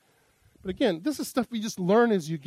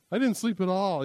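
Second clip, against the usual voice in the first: mock complaint, a bit louder; exaggerating; 4 semitones higher, 3 dB louder than usual. Husband repeats his exaggeration to his wife, mock complaint. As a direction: lay the exaggeration on again. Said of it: "accuses me of exaggerating".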